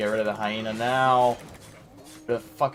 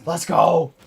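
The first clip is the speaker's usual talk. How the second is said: excited cheer; 5 semitones higher, 8 dB louder, slower than usual. Real, not acted. Wins a close fight.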